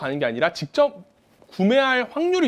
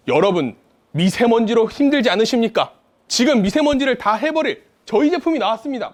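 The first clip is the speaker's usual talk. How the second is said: higher, pitchy TV sales pitch; home shopping host; 3 semitones higher than usual. Shown as a demonstration. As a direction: sell it like a shopping channel host. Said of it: "후킹 멘트는 홈쇼핑 말투예요".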